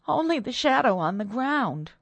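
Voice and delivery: high, distressed reply; frightened maid. A narrator's reading. Frightened maid answers her mistress, high and fearful.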